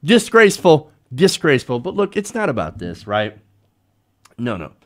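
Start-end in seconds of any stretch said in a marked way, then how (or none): 0.0-1.8 mock outrage, punched then dropping back; Donald Trump. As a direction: imitate a blustering complaint, lightly. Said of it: "And here's Donald Trump saying".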